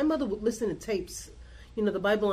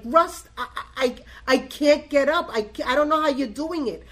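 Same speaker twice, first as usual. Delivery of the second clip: raised, pressured voice of someone freaking out; recounting a panicked plea, higher and louder; retold freak-out; 4 semitones higher, 5 dB louder than usual. Woman retelling her call to Russ, freaking out. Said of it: "I'm, like, freaking out".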